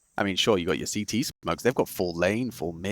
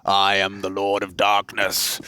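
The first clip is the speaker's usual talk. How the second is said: dark lord; slower than usual. Pretend. Mock villain voice joke.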